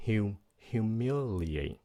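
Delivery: slow, careful "humiliate"; teacher modelling "humiliate" with care; neat pronunciation. Shown as a demonstration. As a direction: say "humiliate" neatly, every syllable clear. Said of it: "nhớ phát âm chữ này cho gọn".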